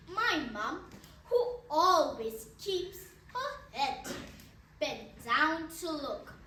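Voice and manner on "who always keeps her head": usual speaking voice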